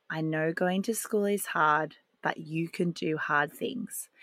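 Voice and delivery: softly, calming, almost whispered at the end. Retold or imitated. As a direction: bring the calm in, don't match his chaos. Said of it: "just very calmly and very lower my voice".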